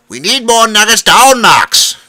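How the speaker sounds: put-on high, loud voice with an Asian accent. A narrator's reading. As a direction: manager calling an order to Max, Asian accent. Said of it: "thick Asian accent".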